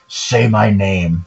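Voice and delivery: slow menacing "Say my name"; menacing Heisenberg. Retold or imitated. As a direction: draw out "Say my name" slowly and darkly. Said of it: "when Heisenberg says".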